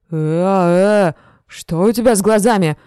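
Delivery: put-on loud, alarmed drunken cry; suddenly frightened, blurting it out; startled fear. A narrator's reading. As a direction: drunk sees her eyes and cries out in alarm. Drunk frightened by her eyes.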